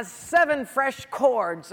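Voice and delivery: loud, drawn-out improvising; stalling, making it up. Acted. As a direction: invent it as you go, stretching the words. Samson making something up, stalling.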